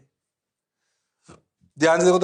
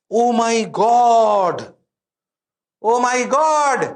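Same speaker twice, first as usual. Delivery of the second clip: mock astonishment; 6 semitones higher, 5 dB louder, much slower than usual. Mock amazement at the missing image.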